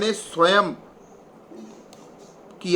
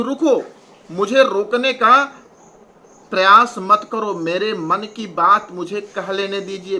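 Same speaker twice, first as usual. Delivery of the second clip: Kaikeyi's protest. Acted. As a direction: demand the court let her speak. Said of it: "Kaikeyi कहती है".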